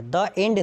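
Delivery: "the end" as "duh end". Shown as a demonstration. Teacher rejects a student's answer, "the end" said as duh end. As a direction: say "the" with a short dull vowel before "end". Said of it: "बिल्कुल pronunciation गलत है".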